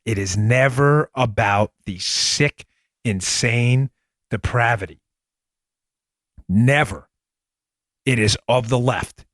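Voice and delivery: slow, emphatic real disgust; emotional indignation. Real, not acted. Host condemning media stories to listeners, emotional indignation. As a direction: spell it out slowly, worked up. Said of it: "Sorry for getting a little emotional there".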